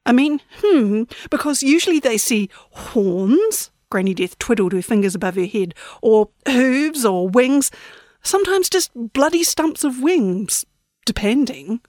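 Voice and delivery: a sweet, falsely polite granny; prim old lady. Acted. Granny Death explains visions.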